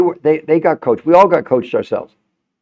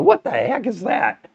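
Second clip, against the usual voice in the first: retold puzzlement; 10 semitones higher, slower than usual. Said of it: "I'm going like".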